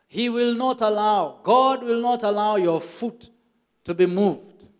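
slow, lifted emphatic reading; excited reading. Retold or imitated. Pastor excitedly repeats the verse, lifted and slow. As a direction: proclaim the promise with rising joy. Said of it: "he got so excited".

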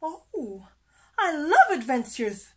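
high, gushing little fish voice; thrilled. A narrator's reading. Little fish keen on adventure, high thrilled voice. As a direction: gush with eager delight.

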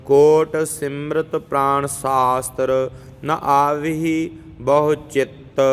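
slow, measured chanting of verses; scripture recitation. Acted. Teacher reciting Jaap Sahib for students, measured chant. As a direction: recite each verse steadily and devoutly.

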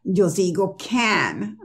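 "can" said slowly with an open A; slow demo. Shown as a demonstration. Teacher slowly saying can for a can of soda. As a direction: draw out "can" like the beer can. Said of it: "Si yo tengo un can".

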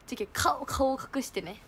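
soft whispered aside; whispering. Real, not acted. Telling her friend in a whisper how she hid her face. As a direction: breathe it, barely voiced.

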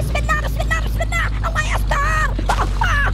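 high, loud panicked cries on a runaway car; mock terror, shouting high and loud; panicked yelling. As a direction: yell in fright as it takes off.

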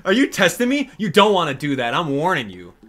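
lightly voiced cranky mole, scolding and sarcastic; a hint of a grumpy mole lecturing; Mister Resetti voice. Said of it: "I do a very good Mister Resetti".

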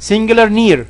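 slow, deliberate recap of the four words. Shown as a demonstration. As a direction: spell it out slowly for the class. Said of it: "مرة تانية نقول". (تلخيص بطيء ومتأنٍ)

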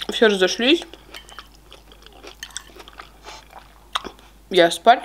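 words through a mouthful; talking while chewing. Real, not acted. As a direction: mouth full of food. Seen 0: Bite taken at -2, chewing through the stretch, second bite at 7.3.

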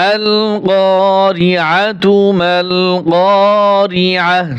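slow, drawn-out chanted recitation; Quran recitation. Shown as a demonstration. Teacher recites the verse for students, slow chanted recitation. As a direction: chant the verse slowly with tajweed.

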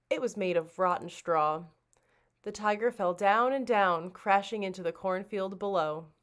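ordinary delivery, nothing marked

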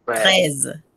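"Treize" said the French way, final e silent; "Treize" en français, e muet. Shown as a demonstration. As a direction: model "Treize" in French, the e barely heard. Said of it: "Très bien".

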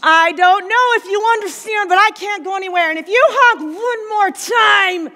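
exasperated, building to a shout at the honker; rising road rage. Acted. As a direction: lose patience, then threaten with a shout. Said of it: "And we get road rage".

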